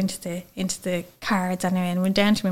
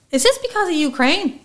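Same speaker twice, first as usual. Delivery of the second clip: imitating confused dad; 8 semitones higher than usual. Dad confused by scan card.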